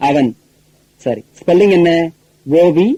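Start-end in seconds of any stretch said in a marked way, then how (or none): 0.1-0.3 அவன் with a short "uh" at the start; correct oven vowel. Shown as a demonstration. Teacher answering own question, அவன் with short first vowel. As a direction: say oven as "uh-ven". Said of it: "அப்ப உச்சரிப்பு என்ன?".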